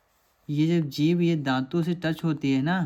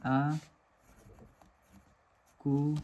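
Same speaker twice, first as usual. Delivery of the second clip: syllable by syllable; 4 dB quieter, much slower than usual. Shown as a demonstration. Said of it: "इसे ऐसे लिख सकते हैं".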